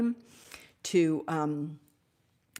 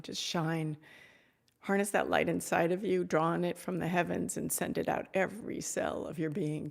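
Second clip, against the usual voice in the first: guided blessing meditation. Acted. Returns to blessing the viewers.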